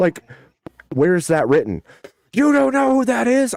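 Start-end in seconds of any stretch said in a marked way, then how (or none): 2.3-3.6 very high-pitched, rising, explosive, furious angry outburst. Retelling how another person answered a question: imitating an angry outburst. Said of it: "he exploded".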